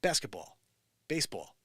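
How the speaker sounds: basketball and baseball in a light New Jersey accent. Shown as a demonstration. Showing friends how New Jersey says them, New Jersey accent. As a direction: give the words the New Jersey sound. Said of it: "But down in New Jersey".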